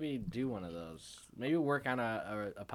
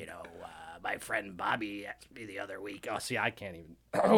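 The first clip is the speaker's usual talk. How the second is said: sports radio host. Acted. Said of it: "That's so good".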